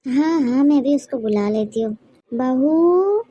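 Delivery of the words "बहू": calling out. Acted. Calling daughter-in-law from another room.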